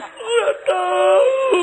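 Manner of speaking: high, loud, slow crying answer; mock sobbing. Mourner asked why crying, hammed-up loud sobbing reply. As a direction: wail it through fake tears.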